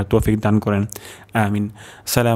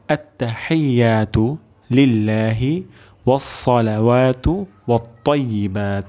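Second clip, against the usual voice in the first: careful recitation. Shown as a demonstration. Teacher pronounces it once more for learners, careful recitation. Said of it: "আরেকবার উচ্চারণ করে দিচ্ছি".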